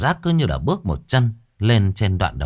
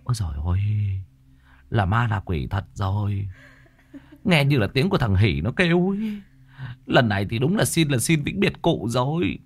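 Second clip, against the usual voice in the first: trembling whisper to each other; 3 semitones higher than usual. Acted. Villagers whisper to each other about the ghost, mildly fearful. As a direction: murmur it nervously to the neighbour. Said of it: "Người ta run rẩy bảo nhau".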